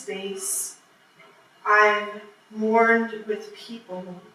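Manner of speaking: measured recital with long pauses between phrases; poetry reading. Acted. Poet reading a piece written for the show, measured poetry reading. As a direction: deliver each phrase, then let it hang.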